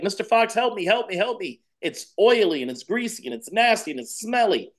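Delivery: high, pleading little bird voice; a tiny bird begging the fox for help; pleading baby bird. Acted. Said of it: "he's like".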